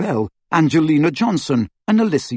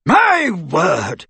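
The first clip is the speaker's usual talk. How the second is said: put-on higher, puffed-out old wizard's cry; puffing exclamation; 5 semitones higher than usual. A narrator's reading. A flustered old professor puffing in alarm. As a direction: blurt it out of breath. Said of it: "he puffed".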